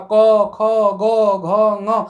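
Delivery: क, ख, ग, घ, ङ each said clearly with the tongue pulled back; throat letters modelled for students; demonstrating letters. Shown as a demonstration. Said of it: "जैसे हम बोल रहे हैं".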